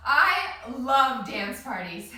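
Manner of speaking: winded after dancing; out of breath. Real, not acted. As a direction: speak between breaths. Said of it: "I am way out of breath".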